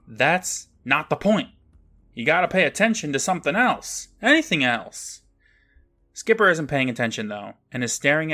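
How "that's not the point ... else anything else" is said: lightly acted exasperated father; scolding dad. Dad reprimands Skipper over comic books, scolding. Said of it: "And Dad says".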